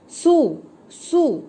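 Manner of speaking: drawn-out सू, said very slowly and clearly; slow demo syllable. Shown as a demonstration. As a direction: stretch सू like a teacher sounding it out. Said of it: "सा के साथ हमने इसे जोड़ा तो बन गया".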